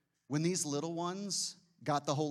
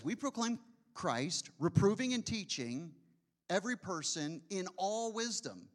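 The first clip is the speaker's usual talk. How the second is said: scripture reading; 3 semitones higher than usual. Acted. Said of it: "So he says".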